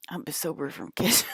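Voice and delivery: breathy whispered joke; whispered punchline. Real, not acted. Comic whispering the ketchup joke to the crowd. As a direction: whisper it like a secret. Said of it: "whispered punchline".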